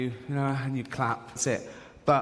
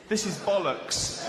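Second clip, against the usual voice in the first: muttered disdain; 6 semitones higher, slower than usual. Retold or imitated. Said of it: "he goes".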